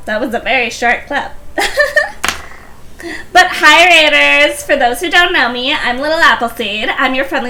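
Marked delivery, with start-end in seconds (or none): 3.3-4.6 put-on valley girl. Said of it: "current Valley Girl".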